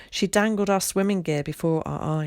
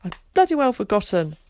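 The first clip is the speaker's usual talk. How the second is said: high, upset tearful cry; mild tearful outburst, louder; bursting into tears; 7 semitones higher, 5 dB louder than usual. A narrator's reading. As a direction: blurt it out through sudden tears. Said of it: "she burst into tears".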